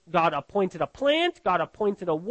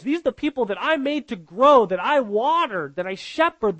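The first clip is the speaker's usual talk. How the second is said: raised, pleading rebuke; God rebuking Jonah; 3 semitones higher than usual. Acted. God pressing Jonah about the people of Nineveh, raised rebuke.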